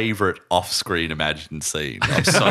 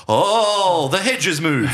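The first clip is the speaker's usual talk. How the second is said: mock disappointment; 7 semitones higher, 5 dB louder, much slower than usual. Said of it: "it's like".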